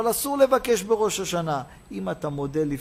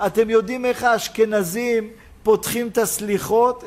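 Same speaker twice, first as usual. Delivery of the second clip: raised, ringing sermon delivery; impassioned preaching; 4 semitones higher, 5 dB louder than usual. Acted. Preacher promising blessing to the thankful, impassioned preaching. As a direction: proclaim the promise with long, loud phrase endings.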